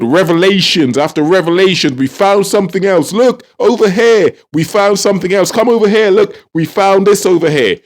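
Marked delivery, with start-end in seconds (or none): 1.9-7.8 higher-pitched, hurried-along beckoning in mockery; mock distraction. Commentator mimics government distracting people with revelations, mocking. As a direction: mimic someone eagerly pointing elsewhere.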